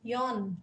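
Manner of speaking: "Jon" with an O sound gliding a little toward I; pronúncia norueguesa de "Jon"; Norwegian name. Shown as a demonstration. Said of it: "Então, fica assim".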